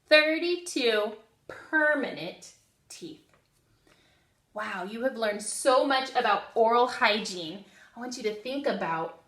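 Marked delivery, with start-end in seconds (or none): 0.1-3.3 call and response. Shown as a demonstration. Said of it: "Say that with me".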